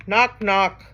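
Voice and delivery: two high knocks; knocking on a door. Acted. Reader reviewing the door sound with children, knocking. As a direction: knock with your voice. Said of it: "He can sound like a hand on a door".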